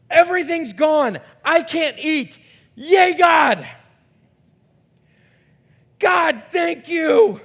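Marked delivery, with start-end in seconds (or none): 2.8-7.4 loud, high shouting praise; exultant shout. Acted. Believer with nothing left, shouting joyful praise. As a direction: shout thanks like a fan at a game.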